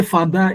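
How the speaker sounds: father tonalized as "fadá"; mother-tongue father. Shown as a demonstration. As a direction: give father a d and a toned second syllable. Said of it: "from the influence of our".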